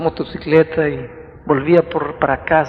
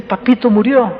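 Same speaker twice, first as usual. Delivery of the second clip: put-on child crying out; 6 semitones higher, 5 dB louder than usual. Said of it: "comenzó a llorar a gritos".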